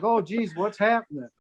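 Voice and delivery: imitating a bad actor's mild alarm; unconvincing panic. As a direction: feign surprise without enough panic. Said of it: "A little more sense of panic".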